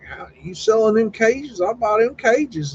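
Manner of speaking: high, keen mock bid for the cages; eager buyer. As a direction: ham up wanting those cages badly.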